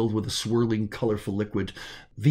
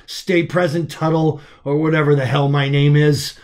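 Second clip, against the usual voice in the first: louder, straining to stay conscious; urgent self-command; 2 semitones higher, 6 dB louder than usual. Acted. Arvin urging himself to stay conscious, louder and straining. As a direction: grit out the order to yourself. Fighting off blackout.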